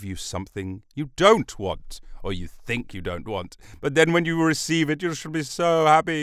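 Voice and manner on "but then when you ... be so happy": mock enthusiasm. Mock promise to listeners.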